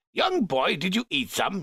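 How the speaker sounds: high, sharp question; a suspicious master quizzing the boy; Finnegas questioning. A narrator's reading. Finnegas calling Demna over, suspicious. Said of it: "he cried".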